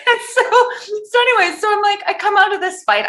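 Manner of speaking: real laughter spilling into the words; laughing. Real, not acted. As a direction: giggle the words out. Laughing at her own story.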